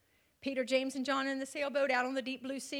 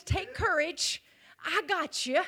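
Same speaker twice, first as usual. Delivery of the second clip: still small voice; 3 semitones higher than usual. Acted. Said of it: "that still small voice that says".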